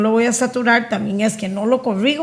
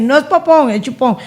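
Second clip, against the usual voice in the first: correcting parent; 4 semitones higher, 4 dB louder than usual. Retold or imitated. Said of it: "No volverle a decir".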